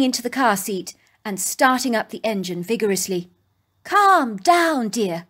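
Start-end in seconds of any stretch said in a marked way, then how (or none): 3.8-5.3 a mother's gentle calming lift, lightly voiced; reassuring mother. Mother calms her rushing daughter, lightly reassuring. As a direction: soothe her like a mother would. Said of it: "my mother assured me".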